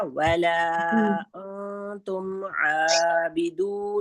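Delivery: very slow chanted recitation; Quran recitation. Shown as a demonstration. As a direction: model the verse slowly and evenly. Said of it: "سمجھ میں آیا".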